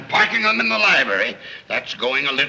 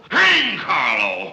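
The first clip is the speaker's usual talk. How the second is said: slow, drawn-out exasperated shout; bellowing; 3 semitones higher, much slower than usual. Acted. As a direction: roar it out, fed up. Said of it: "Will you stop bellowing?".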